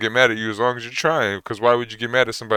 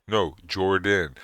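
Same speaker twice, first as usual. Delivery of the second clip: slow, separated "Jordan"; slowed-down name; much slower than usual. Shown as a demonstration. Repeating his name to someone who misheard, slowed down. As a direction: say "Jordan" slowly in two clear syllables. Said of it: "say my name slower so they can hear it".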